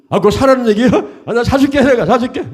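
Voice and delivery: high, impatient customer outburst; exasperated giving in. Acted. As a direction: play a customer cutting in to get it over with. Exasperated customer gives in to seller.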